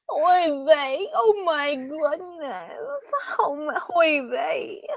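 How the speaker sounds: high, slow, fretting oy vey; boyfriend's mom getting spooked. Retold or imitated. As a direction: fret like a startled mother. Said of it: "she's like, whenever she gets spooked".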